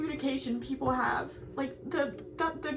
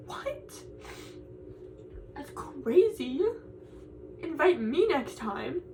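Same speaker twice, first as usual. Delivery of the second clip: slow, drawn-out mock amazement; sarcastic reply; 3 dB quieter, much slower than usual. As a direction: drag it out with dry sarcasm. Sarcastic reply to lucky students.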